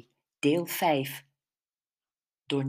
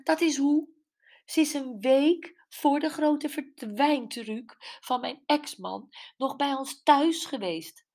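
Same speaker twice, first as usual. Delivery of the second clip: bitter Gwen; 7 semitones higher than usual. A narrator's reading. Gwen explaining to Brenda why she recognises the mistress, bitter. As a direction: lay out the proof with bitter conviction.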